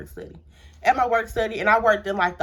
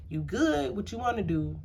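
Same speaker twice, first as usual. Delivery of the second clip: retold softly, higher-pitched concern; gentle checking-in; 3 semitones higher, 6 dB quieter than usual. Boyfriend checking she is okay, gently imitated. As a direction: ask it softly, as if checking on someone. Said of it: "You know, just very, like".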